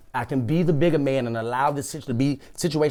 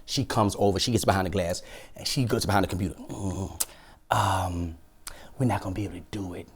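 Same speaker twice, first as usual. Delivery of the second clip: subdued retelling; 9 semitones lower, 10 dB quieter than usual. Retold or imitated. Retells branch manager's reluctant refusal.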